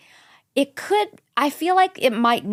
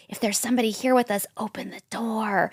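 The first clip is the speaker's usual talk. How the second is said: hushed dare to whoever's there; retold spirit summoning; 6 dB quieter than usual.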